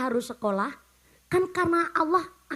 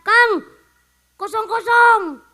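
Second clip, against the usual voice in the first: put-on loud, higher call to an old friend; louder mock Eid greeting to an old friend; hearty greeting; 6 semitones higher, 9 dB louder, slower than usual. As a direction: shout it across the room like a buddy.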